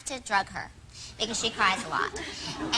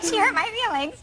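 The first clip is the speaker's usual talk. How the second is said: mock weepy; 7 semitones higher than usual. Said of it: "I was sort of crying".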